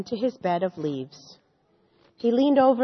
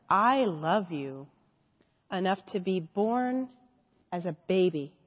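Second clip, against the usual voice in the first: God's tender answer. Shown as a demonstration. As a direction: speak it as a loving reassurance. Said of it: "I think God would answer".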